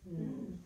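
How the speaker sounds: "mm" as a lone held nasal consonant; separate sounds. Shown as a demonstration. Teacher gives the sounds of on, "mm" said in isolation. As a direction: hum "mm" as a single sound. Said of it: "Tell me the sounds of on".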